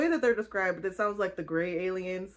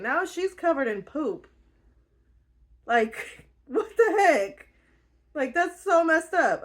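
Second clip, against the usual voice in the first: high, loud exasperated retelling; outraged; 8 semitones higher, 3 dB louder than usual. Real, not acted. Vlogger outraged that Georgie gets covered in poop, high and loud. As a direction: rant it in disbelief.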